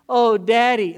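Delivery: put-on loud, high shaken little boy; hurt child. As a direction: cry out like a fallen kid. Son after falling from swing.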